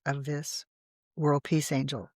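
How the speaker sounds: whispered, almost reverent; soft unvoiced whisper; hushed whisper. Real, not acted. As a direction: drop into a whisper as if sharing a secret. Whispers about the angel lithograph.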